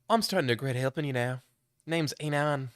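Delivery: put-on dry British accent, deadpan; a wry, mildly fed-up British introduction. Player character introduces himself to Max, dry British accent. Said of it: "how I'm saying things in this British accent".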